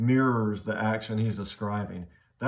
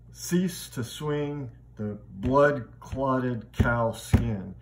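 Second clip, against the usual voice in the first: slow, flowing, then heavy beats on cow skin; rhythm shift; 2 semitones higher, much slower than usual. Shown as a demonstration. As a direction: let it flow, then clog it up. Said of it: "we go from an iambic rhythm to, uh, spondaic".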